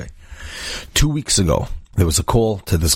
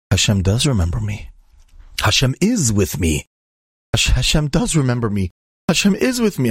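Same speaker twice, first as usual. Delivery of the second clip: mildly worked-up awe, rising higher on the repeat; retold agitated realization; 4 semitones higher than usual. Lonely patient realizing God remembers him, retold with growing agitation. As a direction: retell a stunned man's realization, building in pitch. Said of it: "They try to calm him down".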